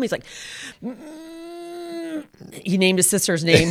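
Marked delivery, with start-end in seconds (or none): 0.8-2.2 put-on sulky teen grunt. Teenager grunting in answer.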